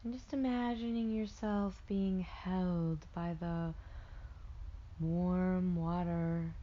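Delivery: slow meditation voice, long pauses between phrases; guided meditation. Acted. Meditation guide helping listeners float in warm water, slow guided delivery. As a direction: lull them into rest with drawn-out words.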